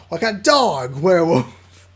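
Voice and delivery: loud, slow growly beast voice; werewolf growl. Acted. Liam growling that he fights like a dog werewolf.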